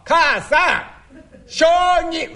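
loud call to the next room; yelling across the room. Acted. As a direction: shout for her, stretched out. Husband calling out again.

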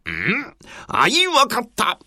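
warlord ordering march; booming commanding warlord. Acted. Nobunaga decides to march.

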